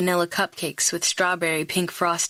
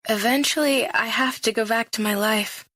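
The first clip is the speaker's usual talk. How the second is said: wavering, unsteady voice; shaky voice; 4 semitones higher than usual. Acted. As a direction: let the voice shake a little. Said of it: "I manage in a shaky voice".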